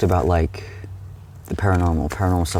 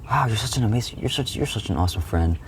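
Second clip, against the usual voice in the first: gushing praise; 5 semitones higher than usual. Retold or imitated. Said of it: "I'm like".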